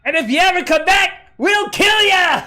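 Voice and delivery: high, loud, slowed-down cartoon dog threat; threatening dogs. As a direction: bellow it as a gloating villain dog. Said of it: "hear the dogs go".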